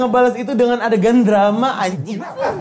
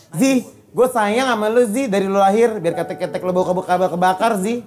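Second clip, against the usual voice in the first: fake crying; 5 semitones lower than usual. Shown as a demonstration. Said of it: "Caranya kalau nangis".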